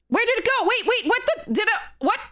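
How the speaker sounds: high, baffled what-just-happened; real surprise, voice shooting up high; shocked disbelief. Real, not acted. Streamer baffled his pick vanished, shocked high disbelief.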